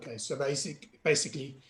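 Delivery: low, rough scary-sounding voice; croaky voice, pitched low. Real, not acted. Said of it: "excuse my scary voice".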